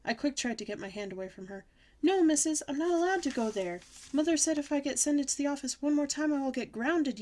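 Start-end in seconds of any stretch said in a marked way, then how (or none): 2.0-7.2 high, loud pleading objection; alarmed protest. A narrator's reading. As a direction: protest anxiously against being taken in. Child resists going to the office.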